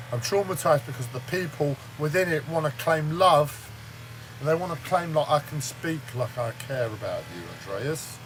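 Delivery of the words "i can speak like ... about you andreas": mock caring nurse. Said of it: "I sound like I've got care in my voice".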